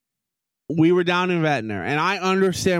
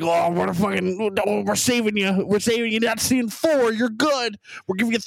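higher-pitched mocking quote; mock sales pitch; 4 semitones higher than usual. Companies telling customers they're saving them money, mock sales pitch. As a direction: imitate a self-congratulating company.

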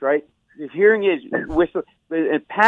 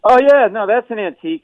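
salesman pitch; 6 semitones higher, 4 dB louder than usual. Retold or imitated.

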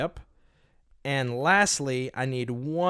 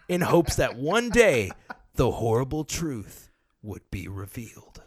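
lightly voiced trailer narrator, with laughs; movie trailer voice. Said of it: "I'm gonna do it like movie trailer voice".

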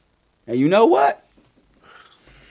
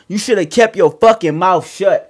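retold threat; 3 semitones higher, 6 dB louder than usual. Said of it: "First he said to her".

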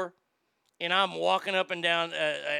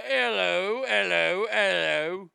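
mock sing-song hello; 3 dB louder, slower than usual. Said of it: "When you walk into a room".

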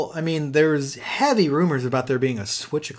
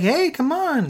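sedated Phil voice; 13 semitones higher, slower than usual. Retold or imitated. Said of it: "I don't know why he's talking this way".

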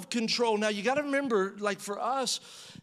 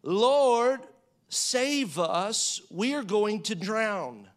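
panicked disciples; 3 dB louder, much slower than usual. Retold or imitated. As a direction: cry out as if the boat is sinking. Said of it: "this is the way he said".

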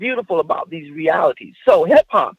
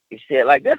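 pitch down; 6 semitones lower, much faster than usual. Shown as a demonstration. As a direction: lower pitch through to "this". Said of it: "pitch down".

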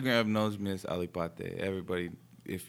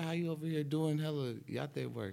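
put-on amazed young guy; 5 semitones higher than usual. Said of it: "like, you be like".

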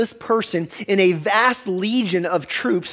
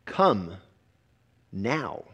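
urgent command; 9 semitones lower, 4 dB quieter than usual. Retold or imitated. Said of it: "an urgency".

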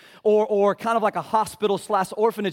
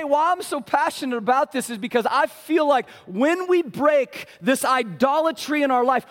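ordinary talk, nothing marked

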